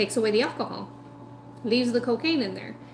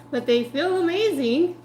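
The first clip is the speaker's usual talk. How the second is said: mock blissful; 5 semitones higher, 5 dB louder than usual.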